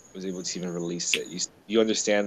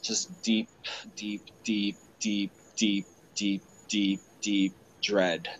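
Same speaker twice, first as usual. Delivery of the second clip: emotional whisper; slower than usual. Real, not acted. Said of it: "I'm sorry that I became emotional".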